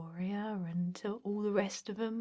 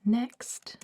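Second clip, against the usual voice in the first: a louder call for the next person in line; 3 semitones higher, 6 dB louder than usual. Acted. Receptionist calling in the next applicant, raised call.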